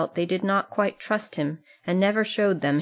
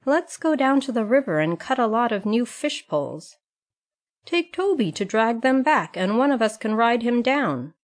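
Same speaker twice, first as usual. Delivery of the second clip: put-on higher, lively boyish voices; eager boys; 6 semitones higher than usual. A narrator's reading. Boys planning a river trip, eager. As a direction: pitch it up like an excited kid.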